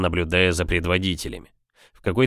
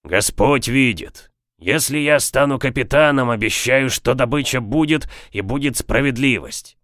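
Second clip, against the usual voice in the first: solemn oath; 4 semitones higher than usual. A narrator's reading. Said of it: "жестом клятвы произнёс".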